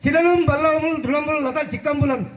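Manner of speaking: measured, chanted Telugu verse recital; poem recitation. Acted. Old student reciting a poem for teachers, in a slow, measured chant. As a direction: lay out each line slowly like a school recital.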